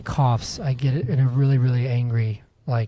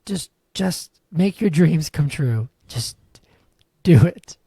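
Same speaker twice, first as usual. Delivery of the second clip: Shia LaBeouf shout; slower than usual. Retold or imitated. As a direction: bark do it like a hammed-up pep talk. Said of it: "Do you know what I'm referencing?".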